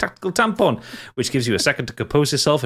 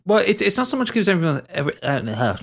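slurred by loose false teeth; mumbling round slipping dentures; 7 semitones higher than usual. Real, not acted. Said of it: "I'll put my teeth back in".

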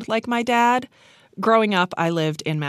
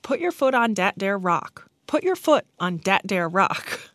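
put-on practised Newfoundland accent, th turned to d; imitated Newfoundland accent; 3 semitones higher than usual. Child rehearsing a friend's words at bedtime, imitated Newfoundland accent. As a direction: repeat it like a rural Newfoundlander. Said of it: "repeating that in her accent".

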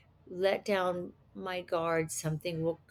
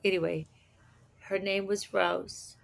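ordinary talk, nothing marked

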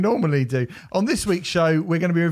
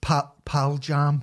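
put-on Scottish accent; slower than usual. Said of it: "And he said".

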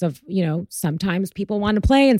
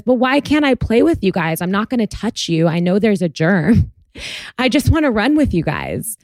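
put-on a child asking to join in; pleading little boy; 3 semitones higher than usual. Son pleading to older girl.

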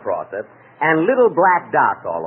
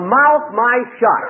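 jumbled syllables; 8 semitones higher, 4 dB louder, slower than usual. Acted. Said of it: "that's a very novel idea".

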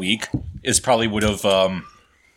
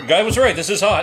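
laughing; 7 semitones higher than usual. Real, not acted. Hot wings, laughing.

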